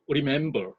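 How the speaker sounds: remember with the middle syllable MEM stressed; middle-syllable stress demo; stress on second syllable. Shown as a demonstration. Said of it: "두 번째 음절에 강세가 옵니다".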